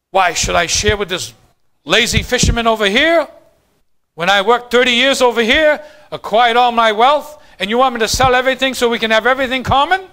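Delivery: acting out a self-important objection, building in force; mock affronted believer, protesting with rising question endings; puffed-up indignation. Churchgoer refusing the apostles' call to share, puffed-up and indignant. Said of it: "We'd start puffing up our chests".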